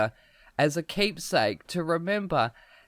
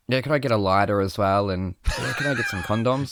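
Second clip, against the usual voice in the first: mock casual cool; 4 semitones lower than usual. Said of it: "acting all cool".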